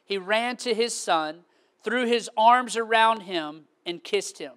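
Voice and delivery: low, measured Bible reading; scripture reading. Real, not acted. Preacher reads scripture to the congregation, low and measured.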